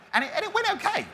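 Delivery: laughing it off with a high giggle. Real, not acted. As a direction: chuckle through the admission. Sheepish admission about his degree.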